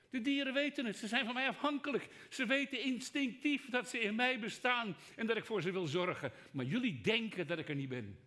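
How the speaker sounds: high, loud voice of God proclaiming. Acted. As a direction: speak as God declaring to his creation. Preacher voices God speaking.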